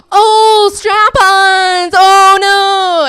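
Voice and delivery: loud, high drawn-out mock wail; hammed-up high cry of dismay; horrified realization. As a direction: wail it out as mom realizing her blunder. Mom realizing her mistake, acted.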